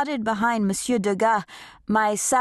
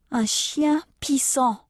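mock ballet mistress; 6 semitones higher than usual. Teacher's insult repeated in French.

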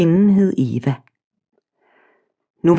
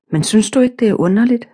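higher, pressing question; insisting, higher; 4 semitones higher, faster than usual. Acted. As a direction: push the question again, higher and more eager. Eva insists, asking again. (insisterende, højere stemme)

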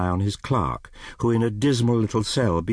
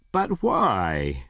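dismayed questioning, only lightly raised; mild cry. Acted. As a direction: ask in mild protest. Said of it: "cried Scrooge's nephew".

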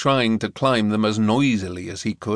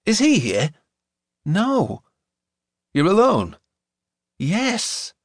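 put-on American girl voice; 8 semitones higher, slower than usual. A narrator's reading.

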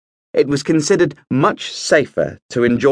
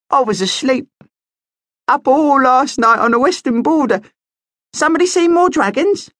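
much higher, light bat voice; squeaky young bat; 13 semitones higher than usual. A narrator's reading. Young bat greets the prince, high and squeaky. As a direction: chirp like a sleepy little bat.

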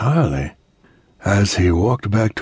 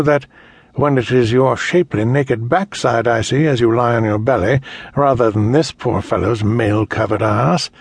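gloating tyrant, higher and louder; cold rasping evil emperor; 6 semitones higher, 4 dB louder than usual. Acted. Emperor threatens Adara.

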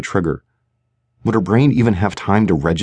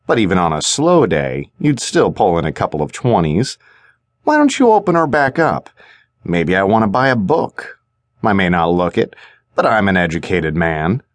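mocking thug. Thug needles her about money.

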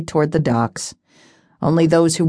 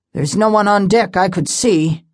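gruff; 3 semitones higher than usual. Acted. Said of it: "he said gruffly".

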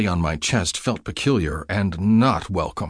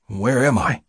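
raspy; 4 semitones higher than usual. Acted. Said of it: "I rasped".

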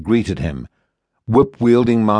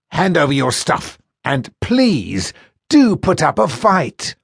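higher, slow mocking thug voice; taunting thug sailor; 7 semitones higher than usual. Fat sailor with a cudgel goading Tallis, mocking. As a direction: goad him into fighting.

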